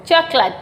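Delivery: चॉकलेट said as "chok-lut"; teacher models चॉकलेट as "CHAAK-lut"; vowel dropped. Shown as a demonstration. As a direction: lose the ay in चॉकलेट, ending on lut. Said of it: "ए गायब हो जाता है".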